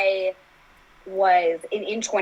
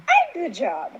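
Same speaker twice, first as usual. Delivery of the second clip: high-pitched retold revelation; repeated self-affirmation; 7 semitones higher, slower than usual. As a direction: repeat it to yourself with growing conviction. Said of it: "I kept repeating that to myself".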